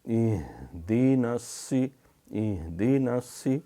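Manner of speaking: اہدیناسی slow, with the ha drawn from the navel; Quranic ha. Shown as a demonstration. Teacher demonstrates اہدیناسی slowly for students. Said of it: "یہ اس طرح یہ ہا پڑھی جاتی ہے".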